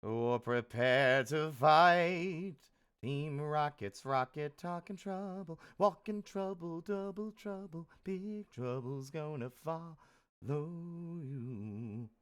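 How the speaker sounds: slow, half-sung villain chant; Team Rocket motto. Pretend. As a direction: drawl it like a cartoon villain.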